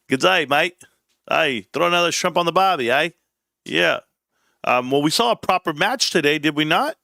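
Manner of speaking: a jokey Aussie greeting in a put-on Australian accent; mock Australian accent. Greeting his Australian fans in a mock Australian accent. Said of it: "I actually have fans out in Australia".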